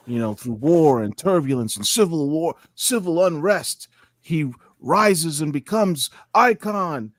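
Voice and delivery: epic movie trailer voiceover. Pretend. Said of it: "imagine an Icon trailer, movie trailer".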